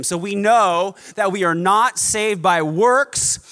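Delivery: emphatic preaching. Acted. Emphatic preaching run, slow.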